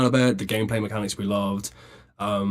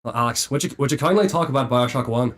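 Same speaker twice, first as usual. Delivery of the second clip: put-on Irish accent. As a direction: fake Irish accent, lightly done. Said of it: "in a fake Irish accent".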